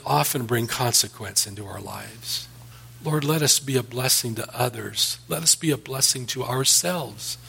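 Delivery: earnest, measured pastor's prayer; closing prayer. Acted. Pastor praying for the congregation and nation, earnest prayer. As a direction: pray it over the congregation, steady and sincere.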